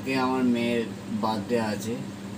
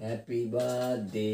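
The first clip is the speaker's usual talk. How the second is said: laughing; 5 dB quieter, slower than usual. Real, not acted. Laughing birthday wishes.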